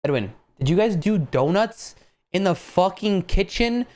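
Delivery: a touch of mock outrage, stretching it out; shocked accusation. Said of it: "He goes".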